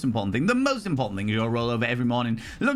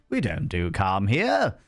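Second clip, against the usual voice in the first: slow, lower mock-soothing line; imitating calm voice; 4 semitones lower, slower than usual. Streamer imitating the calm alert voice, slow and low. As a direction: echo the alert in a put-on calm. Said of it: "Said in a very calm and relaxing voice".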